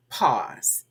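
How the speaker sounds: long silence before pause; pause, then say pause falling; demonstrated pause. Shown as a demonstration. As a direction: hold a deliberate pregnant pause, then land the word pause. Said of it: "That's what I just did".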